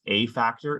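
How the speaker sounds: "a" given its full "ay" sound; stress on A. Real, not acted. Presenter explaining what the applicant must establish, stress on A. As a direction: mark "a" as "ay", set apart from "factor". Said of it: "emphasize the word a before factor".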